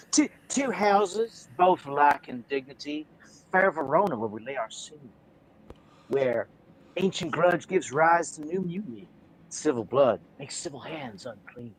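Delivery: Shakespeare recital. Acted. Recites Romeo and Juliet prologue.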